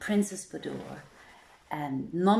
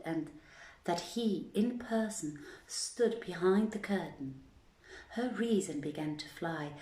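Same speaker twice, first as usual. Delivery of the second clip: put-on measured storyteller reading of old tale; steady, unhurried storybook narration; story reading. A narrator's reading. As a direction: read it like a bedtime tale. Reads tale aloud to listeners.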